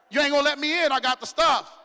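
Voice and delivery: put-on old buddy at the door. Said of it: "Man, it's me".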